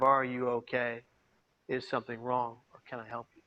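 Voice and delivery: soft, low, fading concerned questions; gentle check-in. Shown as a demonstration. Speaker showing the audience how to ask a stranger, soft and gentle. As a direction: model how to ask quietly and kindly. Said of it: "say something to the effect of".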